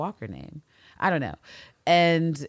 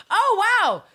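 high, loud amazed cry; shocked gasp; 6 dB louder than usual. Real, not acted. Hearing Anne pull rank, loud amazed cry. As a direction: burst out in amazement.

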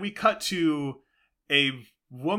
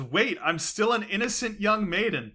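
lightly voiced maiden, pitched up; innocent maiden; 7 semitones higher than usual. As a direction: plead in a higher mock-innocent voice. Acted plea as innocent maiden.

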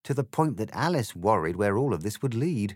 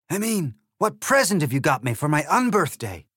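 loud, higher, sneering egg voice; rude Trumpty Dumpty; 8 semitones higher, 7 dB louder than usual. Acted. The egg insults Alice, loud sneering voice. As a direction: sneer it with contempt.

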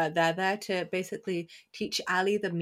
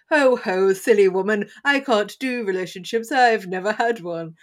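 mock angel voice; 5 dB louder than usual. Imitating the angel character.

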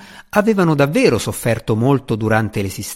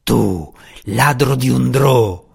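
snorted insult; slower than usual. A narrator's reading. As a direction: spit it out in contempt. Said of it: "sbuffò Roddy".

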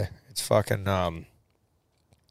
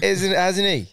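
high, amused question through a laugh; 10 semitones higher, slower than usual. Real, not acted. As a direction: ask while still laughing. Still laughing at the realisation.

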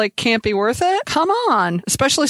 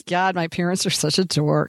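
a mild eye-rolling groan; 5 semitones lower than usual. Retold or imitated. Teen eye-rolling at dorky parents, mild groan. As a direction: roll your eyes at your parents, lightly. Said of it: "you could hear the eye roll in that sentence".

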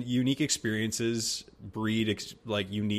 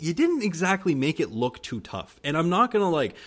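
chuckling mid-sentence; light laugh while praising; 7 semitones higher, 3 dB louder than usual. Real, not acted. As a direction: laugh through the words.

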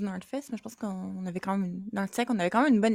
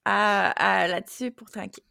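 talking around a sip of coffee; words broken by a sip; while sipping a drink. Real, not acted. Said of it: "Je vais prendre une gorgée de café".

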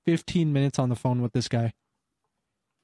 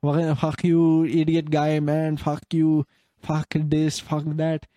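mild mock rant in broken English; drunk caller, broken English. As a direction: lightly mimic an angry drunk client with poor English. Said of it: "With, like, shit English".

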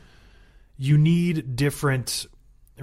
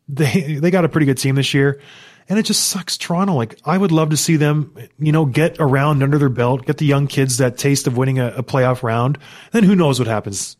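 worked up; 6 dB louder than usual. Real, not acted. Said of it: "I apologize for getting so emotional".

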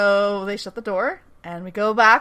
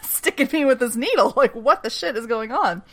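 higher, laughing take on a freaked-out Marine; half-laughing, playing the confused soldier; a laughing imitation of the panicked Marine; laughing mock Marine; 6 semitones higher, 4 dB louder than usual. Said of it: "the Marine's like".

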